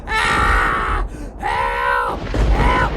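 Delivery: loud acted scream for help; imitated panicked scream. Boy caught in thunderstorm, mock terrified screaming. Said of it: "And now I'm screaming".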